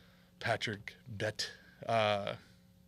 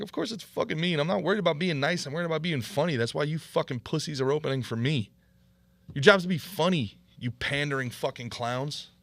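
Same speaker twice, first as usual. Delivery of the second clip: retold angry retort; 5 semitones higher, 5 dB louder than usual. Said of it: "And I'm like".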